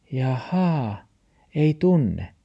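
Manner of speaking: high dog character voice; talking dog. A narrator's reading. Dog takes in what grandfather explains, high-voiced reply. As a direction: echo it back in a high voice.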